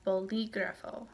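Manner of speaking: "bolígrafo" stressed on LÍ; stress on accented syllable. Shown as a demonstration. Teacher giving an example of a written accent, "bolígrafo" stressed on LÍ. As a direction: lean on the second syllable of "bolígrafo". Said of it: "is the one that is stressed".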